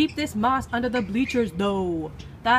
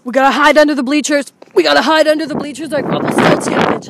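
urgent shout; 3 semitones higher, 7 dB louder than usual. Real, not acted. Running from the rain.

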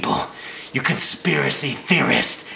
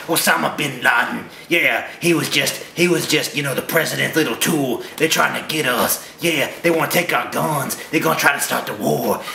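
mock conspiracy nut. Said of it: "that's what you sound like".

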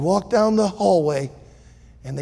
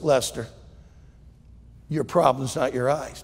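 calm doctor; 5 semitones lower, 4 dB quieter than usual. Acted. Doctor Law answers Lester.

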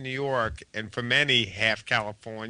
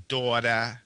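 New York daughter. Shown as a demonstration. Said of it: "it becomes very strong".

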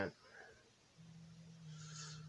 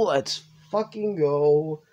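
slow emphatic cheer; 2 semitones higher, much slower than usual. Real, not acted.

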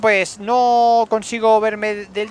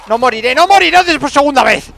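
loud vow; 5 semitones higher, 8 dB louder than usual. Real, not acted. Fighting for his life.

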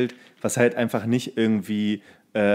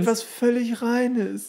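dreamy movie quote; 11 semitones higher, much slower than usual. Retold or imitated. Podcaster joins the movie quote, high and dreamy. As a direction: float it out like something pure.

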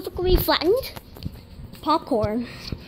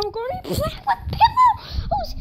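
laughing; 13 semitones higher than usual. Real, not acted. Excited start of pillow play.

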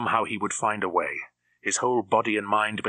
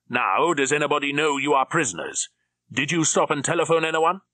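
much higher, louder questioning; sharp interrogation; 6 semitones higher, 5 dB louder than usual. A narrator's reading. Drax interrogating the prisoners, sharp. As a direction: press them hard.

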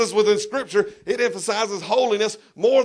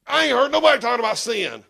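fast, a little louder, NOBODY hit hard; retold outburst; 2 semitones higher, 3 dB louder, faster than usual. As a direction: blurt it out in church. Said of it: "and I was like".

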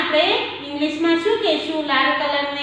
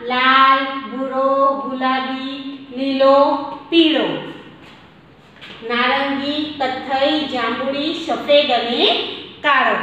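slow reading aloud; slower than usual. Shown as a demonstration. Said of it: "કયા કયા colour?".

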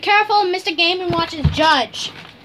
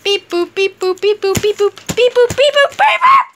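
beeps rising higher and louder into a shout; building robot beeps; 4 semitones higher, 6 dB louder than usual. Pretend. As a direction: start beeping, end in a high shout.

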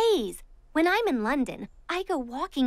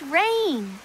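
shocked gasp; 2 semitones lower than usual. Acted. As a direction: gasp in horror. Shocked at rain.

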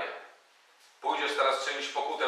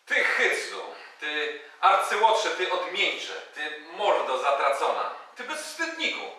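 insult barrage; 3 semitones higher, slower than usual. Acted. Angry torrent of insults.

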